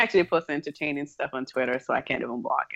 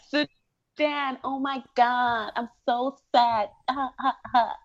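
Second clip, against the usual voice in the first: higher, slow performative grief; mock sad voice; 8 semitones higher, slower than usual. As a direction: fake mournful social media voice. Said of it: "Why you gotta use that voice?".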